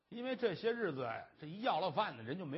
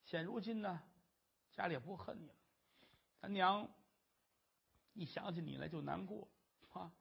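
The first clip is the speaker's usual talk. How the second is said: 轻声劝慰; 6 dB quieter than usual. Acted. 二爷轻声劝哥哥回家.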